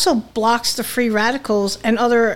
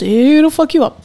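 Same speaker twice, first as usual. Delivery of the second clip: emphatic; 4 semitones higher, 6 dB louder than usual. Real, not acted. Emphatic warning about strong wine.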